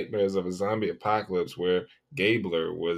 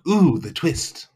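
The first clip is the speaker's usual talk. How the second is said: mock intrigue; 5 semitones higher, 6 dB louder, slower than usual. Real, not acted.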